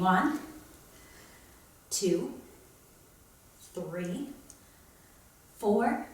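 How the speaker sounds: soft counts squeezed out mid-lift; effortful counting between heavy pulls; straining rep count. Real, not acted. Counting tricep reps lying down.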